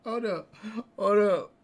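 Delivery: high, real disbelief cutting in; stunned interruption. Real, not acted. Host cutting in on the colorblind joke, high disbelief. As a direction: stop everything, who is that.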